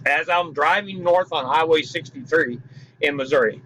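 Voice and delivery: dry-mouthed speech; talking with a dry mouth. Real, not acted. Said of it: "I got a little dry mouth tonight".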